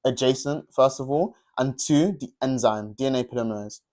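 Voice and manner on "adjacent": adjacent said slowly, with its rise held on the word; stressed word. Shown as a demonstration. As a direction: underline adjacent with your voice. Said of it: "really emphasis on this word".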